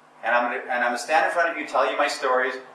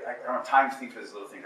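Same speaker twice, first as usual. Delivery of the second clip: small-minded rush; 5 dB quieter, faster than usual. Shown as a demonstration. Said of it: "See the difference?".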